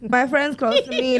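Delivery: real tears breaking through a laugh; fighting back crying; emotional, near tears. Real, not acted. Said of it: "I didn't mean to get so emotional".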